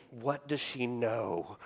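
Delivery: slow, quiet, worried inner voice; a kid nervously racking his brain; anxious wondering. Retold or imitated. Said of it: "rack my brain going".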